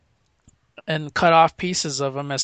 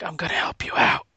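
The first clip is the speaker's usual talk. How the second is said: breathy retold whisper into her ear; imitated close whisper. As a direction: hush it like a secret in her ear. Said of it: "he whispers in her ear".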